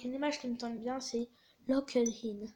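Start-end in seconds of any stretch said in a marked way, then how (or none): 1.7-2.5 English accent. Real, not acted. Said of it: "Mon super accent".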